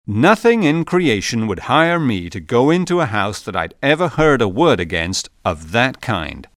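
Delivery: firm, emphatic declaration. Acted. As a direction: say it with strong emphasis. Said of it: "declared Missus Meserve with emphasis".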